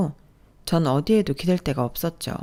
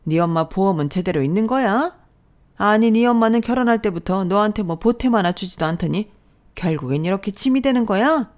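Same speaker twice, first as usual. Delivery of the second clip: scolding mother-in-law; 3 semitones higher than usual. Acted. Mother-in-law belittling her son's wife, sneering. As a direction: sneer down at your daughter-in-law.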